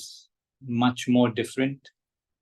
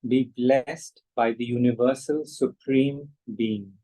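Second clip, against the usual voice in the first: prayer reading. Shown as a demonstration. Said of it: "Now I'll just read out the prayer".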